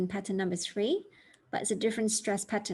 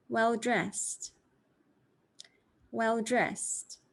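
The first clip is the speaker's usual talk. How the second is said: Well-dressed with dressed stronger, slow and clear; stress on dressed; much slower than usual. Shown as a demonstration. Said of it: "I'm going to read these for you slowly".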